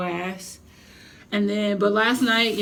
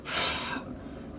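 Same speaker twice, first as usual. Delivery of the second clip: soft breathy unvoiced sigh; quiet defeated sigh; weary sigh; 10 dB quieter than usual. Real, not acted. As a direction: let the disappointment out. Missing her chicken marsala.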